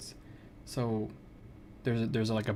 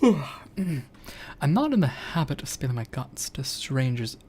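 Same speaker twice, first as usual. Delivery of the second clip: gruff hero voice. Acted. Voicing Artemy in game.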